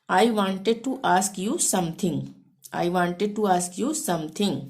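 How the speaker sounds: each English word said very slowly and clearly; slow dictation. Shown as a demonstration. Teacher dictating the English sentence, very slow. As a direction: spell it out slowly for learners. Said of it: "इसको हम अंग्रेजी में कैसे बोलेंगे?".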